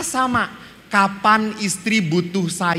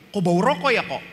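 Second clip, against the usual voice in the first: suspicious father; 4 semitones higher, 4 dB louder, faster than usual. Retold or imitated. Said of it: "father smells smoke".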